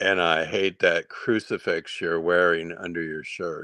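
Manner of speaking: voice dropped way down, deep and low. Retelling what a man said to him, in a deep voice. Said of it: "he said in this deep voice".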